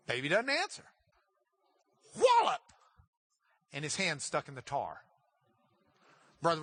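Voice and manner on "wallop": much higher, louder Wallop; shouted sound effect. Acted. Storyteller punching the tar baby, shouted sound word. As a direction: belt out the punch.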